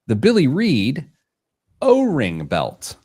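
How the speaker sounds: confident, punchy product announcement; confident reveal. Real, not acted. Host revealing the product to co-hosts, confidently. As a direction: say the name like everyone knows it. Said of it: "you said that so confidently".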